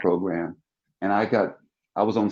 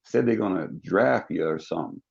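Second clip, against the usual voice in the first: roommate's slow Southern drawl; lightly drawled Southern roommate voice; little Southern drawl. Retold or imitated. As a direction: imitate a mild Southern accent. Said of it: "he had, like, a little Southern drawl too".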